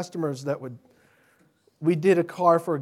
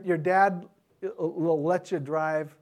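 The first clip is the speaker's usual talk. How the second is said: ordinary talk, nothing marked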